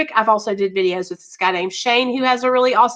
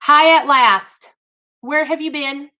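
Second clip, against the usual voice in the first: slow, louder, higher mock scold of where have you been; 5 semitones higher, 3 dB louder than usual. Scolding a long-missing viewer, hammed-up mock telling-off. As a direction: tell him off playfully like a worried mom. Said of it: "Somebody's fixing to get scolded".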